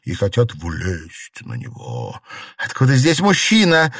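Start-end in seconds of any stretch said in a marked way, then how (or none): 2.6-3.9 sharp alarmed call, higher and louder; startled mistress calling her maid; cry out. A narrator's reading. Mistress startled by a man, crying out. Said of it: "закричала Фэнзе".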